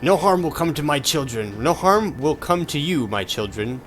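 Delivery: slow, grand boss-villain voice; villain goddess voice. Acted. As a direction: read it as a menacing goddess. Reads boss lines in character.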